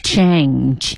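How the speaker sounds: "Change" low, with a full vowel. Shown as a demonstration. Host repeating the drill, "Change" low and full. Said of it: "跟老外一样饱满".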